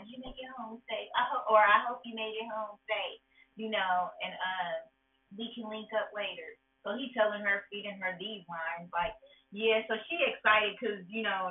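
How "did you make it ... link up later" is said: lightly voiced player; cheesy line. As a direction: rattle off a rehearsed line. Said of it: "cheesy line".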